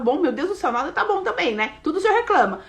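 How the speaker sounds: a hint of a spoiled child's whine, rising at the end; childish complaining prayer. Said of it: "eu falava".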